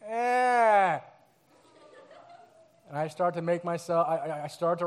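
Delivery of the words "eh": imitating a little cry. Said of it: "there's a little cry".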